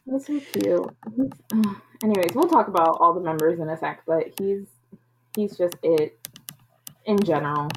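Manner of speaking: crackly USB mic clicks; mic crackling under speech; clicking mic. Real, not acted. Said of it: "So I think your mic is clicking".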